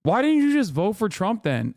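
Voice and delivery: high, incredulous demand; exasperated. Real, not acted. Ranting at liberals, high exasperated demand. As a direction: throw the question out in disbelief.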